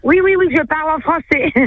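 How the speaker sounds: a high, teasing switch into French; playful French. Real, not acted. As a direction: show off your French with a grin. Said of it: "soy francesa".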